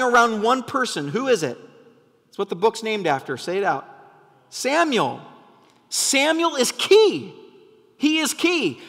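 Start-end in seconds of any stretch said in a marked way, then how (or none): 4.5-8.8 high, loud and slow; passionate yell. Real, not acted. Preacher shouting to the church, fervent and loud. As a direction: hammer each word home from the pulpit. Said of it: "I'm yelling because this is really important".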